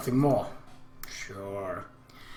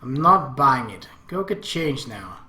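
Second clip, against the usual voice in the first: stern scolding; 6 dB louder than usual. Acted. Sora scolds Akemi firmly.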